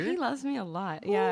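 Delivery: bragging happily about being loved; giddy gushing. Real, not acted. Bride gushes to her friend about her fiance.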